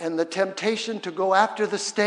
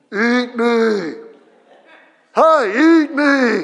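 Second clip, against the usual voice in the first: huge booming voice, very loud and very slow; 4 semitones higher, 10 dB louder than usual. Recalling how tempting food used to call out, the speaker gives it a mega voice. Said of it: "It used to have this mega voice".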